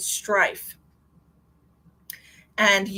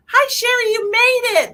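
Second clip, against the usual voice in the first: much higher and louder cheerful hello; excited greeting; 8 dB louder than usual. Real, not acted. Medium welcomes Sherry to the livestream, excited. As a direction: greet a friend arriving, bright and happy. Greeting a viewer joining live.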